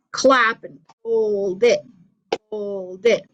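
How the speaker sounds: slow, with hold it drawn long; held out. Shown as a demonstration. Teacher showing how to hold half notes. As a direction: stretch hold it out. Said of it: "you hold it".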